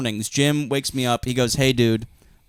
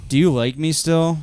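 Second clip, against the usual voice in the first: imitating; 2 semitones higher than usual. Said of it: "Rob did Snow Angels and said".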